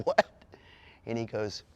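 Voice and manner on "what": shocked. Retold or imitated. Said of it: "And I said".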